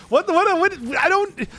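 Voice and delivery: high, loud startled sputter; surprised. Real, not acted. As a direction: caught off guard, blurting.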